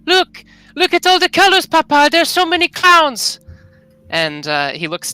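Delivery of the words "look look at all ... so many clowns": put-on high, loud, excited child calling her papa; little girl voice. Daughter sprite calling to her papa, bright and excited. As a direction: squeal it like a delighted little girl.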